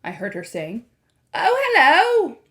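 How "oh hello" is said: put-on slow, high sweet old lady; a lightly voiced grandmother. A narrator's reading. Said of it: "my grandmother's voice came".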